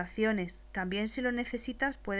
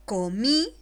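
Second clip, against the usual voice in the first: slow dictation; 7 dB louder than usual. Shown as a demonstration. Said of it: "después te la dicto".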